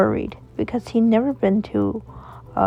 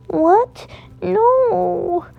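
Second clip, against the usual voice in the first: put-on high, loud child's cry of fear; boy screaming for his father at the IV; panicked yell; 11 semitones higher, 4 dB louder, much slower than usual. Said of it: "him yelling for him".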